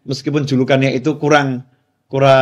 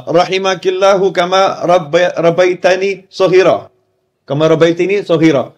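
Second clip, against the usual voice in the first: slow Arabic prayer; 5 semitones higher than usual. Retold or imitated. Son's Arabic prayer for mother.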